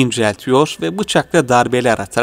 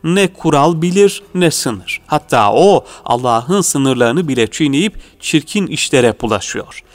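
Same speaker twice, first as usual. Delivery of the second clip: town crier; 3 semitones higher than usual. Acted. Meat calls out to the people.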